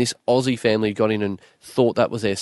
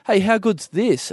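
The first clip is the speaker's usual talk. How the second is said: high, slow gloating voice; smug stranger; 9 semitones higher, slower than usual. Retold or imitated. Stranger gloating over the spare seats, high and slow. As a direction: lord it over him cheerfully.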